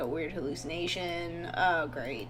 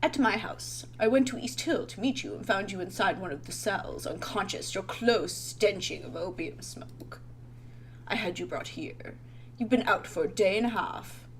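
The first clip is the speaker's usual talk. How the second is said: lightly put-on British gentleman; British accent. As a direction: read it as a British doctor explaining. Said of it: "He's just gonna be British".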